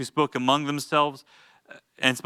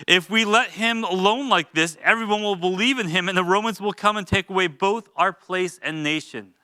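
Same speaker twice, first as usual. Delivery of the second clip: mock fretful Pharisees; 5 semitones higher than usual. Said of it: "I'm sure that's exactly how they sounded".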